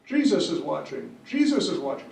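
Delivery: high sing-out on each Jesus; mock parrot calling a warning; joke parrot voice. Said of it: "the parrot is sitting there going".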